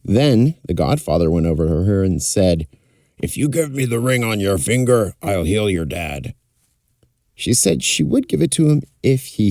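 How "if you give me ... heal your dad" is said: sly magician voice. Acted. Magician bargains with princess.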